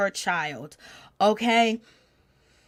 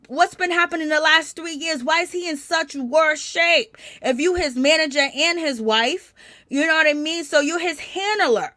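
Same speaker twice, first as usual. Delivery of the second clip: higher-pitched, accusing questions; indignant questioning; 6 semitones higher than usual. Real, not acted. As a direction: take her to task, voice raised in pitch. Challenging the absent manager wife.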